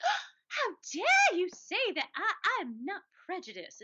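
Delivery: affronted gasp, high loud outburst; mock outrage in an old Jewish lady's voice; indignant old Jewish lady. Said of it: "your old Jewish lady accent".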